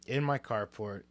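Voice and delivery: ordinary delivery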